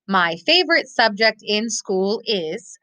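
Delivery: modelled answer. Shown as a demonstration. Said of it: "A possible answer might be".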